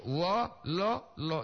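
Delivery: "wololo" with a drawn-out double O, slow; long double o. Shown as a demonstration. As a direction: stretch the O sounds in "wololo" slowly. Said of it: "Itu dua O". (ucapkan "wololo" pelan dengan O panjang)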